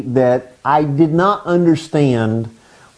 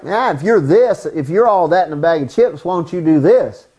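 mild mock taunt of the devil; lightly voiced cocky challenger; talking smack. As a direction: needle him with a light, mocking dare. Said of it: "the devil comes up talking smack".

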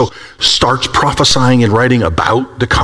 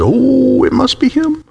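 much higher, eager and amazed; excited recognition; 9 semitones higher, slower than usual. Acted. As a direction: cry it out as the awaited one appears. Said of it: "and they said".

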